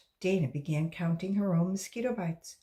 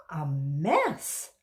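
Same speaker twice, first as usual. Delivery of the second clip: moaning; 3 semitones lower, 3 dB louder, slower than usual. Acted. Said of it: "Dana moaned".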